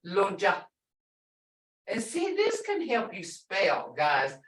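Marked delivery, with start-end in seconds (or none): 0.1-0.6 "lonja" with a brief final "uh"; short "uh". Shown as a demonstration. Teacher pointing out the sound, short vowel. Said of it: "uh, sound".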